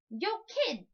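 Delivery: slick streetwise greeting; street hustler. Acted. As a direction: call out like a shady hustler. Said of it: "said the guy".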